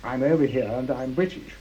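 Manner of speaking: calling out. Retold or imitated. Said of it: "so I called out".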